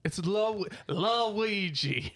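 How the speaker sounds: hammed-up French pronunciation; French accent. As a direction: say it with pretentious fake French. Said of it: "It's French".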